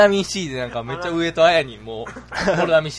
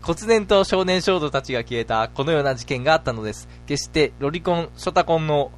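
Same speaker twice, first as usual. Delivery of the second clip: deliberate mock-serious narrator; mystery story narration. Narrator summing up the vanished children, mock-serious storytelling. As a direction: close the strange tale solemnly.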